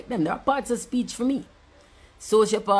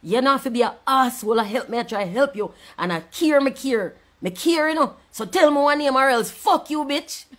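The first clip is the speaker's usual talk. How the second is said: mocking rant; 4 semitones higher, 4 dB louder than usual. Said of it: "and say".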